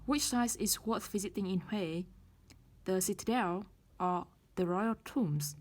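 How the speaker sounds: Citadel rises, Royal Tombs falls; rising then falling choice. Shown as a demonstration. Teacher models the choice question with rise then fall. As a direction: lift the first option, drop the second. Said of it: "Lựa chọn đầu tiên chúng ta sẽ đưa lên rising intonation".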